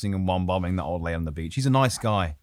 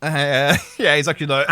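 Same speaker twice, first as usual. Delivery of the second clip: normal talking voice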